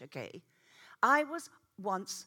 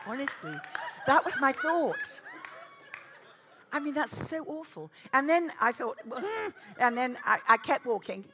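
laughing; 6 semitones higher, 10 dB louder than usual. Real, not acted. Laughing at her own story.

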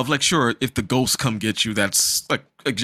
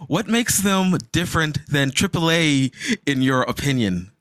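high silly puppet voice; squeaky puppet character; 7 semitones higher than usual. Pretend. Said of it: "kicking in my Puppet voice".

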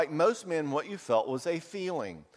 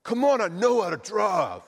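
loud, higher mock-indignant snap; irritated husband; 7 semitones higher, 7 dB louder than usual. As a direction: bristle at being told how to drive. Husband snapping back at his wife.

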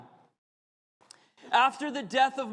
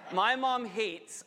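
laughs and blurts it out slowly; half-laughing, half-shouting the words; laughing outburst; 2 semitones higher, slower than usual. Real, not acted. Preacher laughing at his own side note to the congregation.

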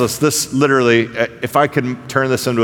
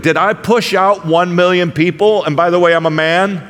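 sarcastic Moses; 4 semitones higher than usual. Retold or imitated. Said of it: "Can you hear Moses' sarcasm to God?".

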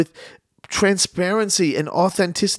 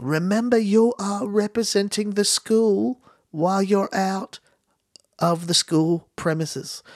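imitating a teacher's thick Aussie accent, higher; mock Australian teacher lecture; 5 semitones higher than usual. Teacher lecturing students before an excursion, in a thick Aussie accent. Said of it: "with their real thick Aussie accent".

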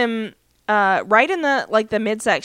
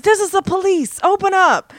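higher, louder acted police order; mock police shout; 8 semitones higher, 4 dB louder than usual. Jarvis pounding on Rufus's door, high mock police shout. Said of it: "he starts pounding on Rufus's door".

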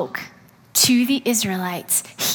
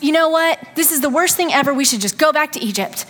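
mock grumbling; 5 semitones higher, faster than usual. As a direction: whine that this is the worst thing ever. Hungry Israelites grumbling in desert.

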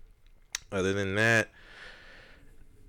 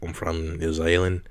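put-on New Zealand accent. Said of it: "You gotta do it in a New Zealand accent".

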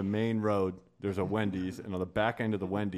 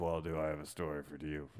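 low confiding; 7 semitones lower, 10 dB quieter than usual. Retold or imitated. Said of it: "he's like".

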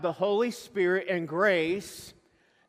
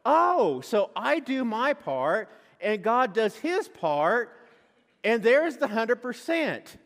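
mock naive realization; 3 semitones higher, 3 dB louder than usual. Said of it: "And I go".

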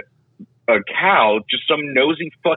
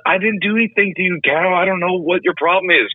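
Mark Wahlberg impression; 4 semitones higher than usual. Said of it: "Kinda sounds like Mark Wahlberg from The Happening".

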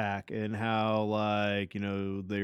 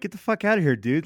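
retold yell; 5 semitones higher, 4 dB louder, faster than usual. Retold yelling at scam vendor.

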